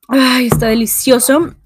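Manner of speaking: right after a sip of coffee; savouring a sip of coffee; while sipping a drink. Real, not acted. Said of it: "me voy a tomar un traguito de café". (tras un sorbo de café)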